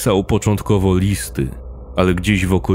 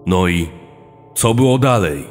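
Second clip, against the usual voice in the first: impatient; faster than usual. Acted. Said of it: "przerwał kobiecie Flajsien".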